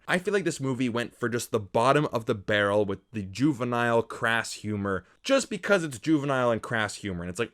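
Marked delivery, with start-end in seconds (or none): none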